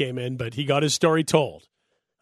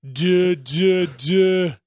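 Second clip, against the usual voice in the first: Chris Berman; 3 semitones higher, 3 dB louder, much slower than usual. Acted. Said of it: "great reference to, uh, Chris Berman".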